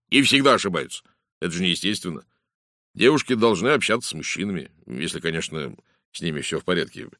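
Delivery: a hint of a lively, opinionated inspector; lively inspector, slightly in character; lightly voiced police detective. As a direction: lightly play a police detective holding forth. Detective's speech in narrated story.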